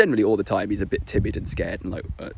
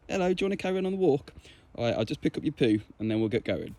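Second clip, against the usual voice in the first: higher, quick chatty talk to a dog; high dog-directed voice; 4 semitones higher, 6 dB quieter, faster than usual. Retold or imitated. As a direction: chat brightly to the dog. Talking to dog on walk.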